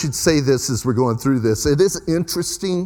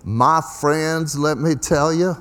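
put-on J. Vernon McGee accent; slower than usual. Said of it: "I'll even try to do a little accent".

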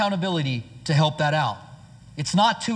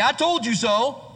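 smug told-you-so; 4 semitones higher, slower than usual. Retold or imitated. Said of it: "Never helps to tell somebody".

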